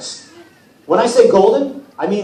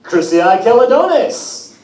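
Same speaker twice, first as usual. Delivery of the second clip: slow, higher, louder correction; Apollo correcting; 5 semitones higher, 4 dB louder, slower than usual. Acted. Apollo corrects Percy's mispronunciation, slowly and clearly. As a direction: spell the name out slowly. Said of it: "Apollo said".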